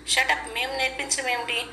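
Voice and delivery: lightly voiced agitated hero snapping back; heated retort. Rishi hits back at Rajeev, lightly heated. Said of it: "అంటూ రిషి ఆవేశంగా".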